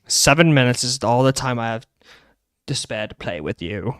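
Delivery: a hint of low, smooth Wesker menace; understated low villain quote; Albert Wesker. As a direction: lightly voice the cool villain taunting. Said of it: "that is Albert Wesker".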